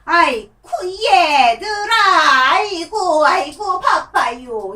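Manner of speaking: a grandma puppet rushing about in a panic; grandma puppet crying out to the kids that she is busy; busy flustered puppet. Shown as a demonstration. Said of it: "목소리도 보세요".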